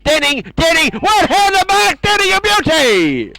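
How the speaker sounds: soaring high, excited call of the mark. Real, not acted. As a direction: lift the voice high and cheer the mark. Commentator calls a great mark.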